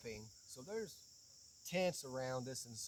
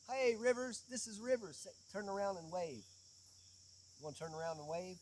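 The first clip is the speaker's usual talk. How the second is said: calling out; 4 semitones higher than usual. Real, not acted. Greeting someone to camera.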